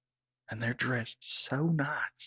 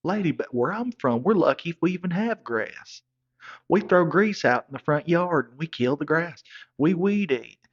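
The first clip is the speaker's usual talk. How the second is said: loud rant; 6 semitones higher, 6 dB louder than usual. Real, not acted. Ranting about grass back home.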